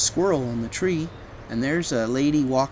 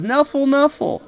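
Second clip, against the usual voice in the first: insistent cries; 9 semitones higher, 3 dB louder than usual. Acted. Sonia claiming her bunny.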